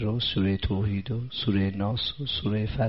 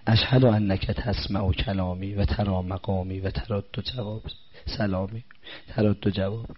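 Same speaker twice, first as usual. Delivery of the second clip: prayer recitation; 3 dB quieter, slower than usual. Acted. Recites ziyarat prayer slowly.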